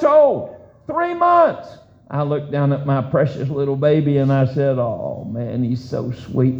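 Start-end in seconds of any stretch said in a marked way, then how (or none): 4.8-6.6 soft cooing. Retold or imitated. Father cooing over sleeping baby.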